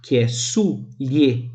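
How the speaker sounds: soulier slow, in two syllables, su-lie. Shown as a demonstration. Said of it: "com duas sílabas". (soulier em duas sílabas, devagar)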